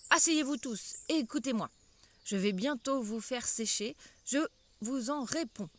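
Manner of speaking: crier à l'assemblée, plus fort; la souris réclame l'attention, forte voix; appel crié. Acted. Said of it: "leur cria". (la souris ordonne à toute l'assemblée de s'asseoir, d'une voix forte)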